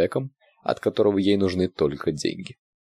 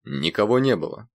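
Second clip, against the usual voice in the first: scared; 4 semitones higher than usual. A narrator's reading. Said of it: "испугался охранник".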